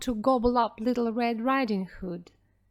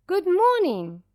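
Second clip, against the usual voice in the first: put-on girl; 8 semitones higher, 6 dB louder than usual. A narrator's reading. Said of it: "said Little Red Riding Hood".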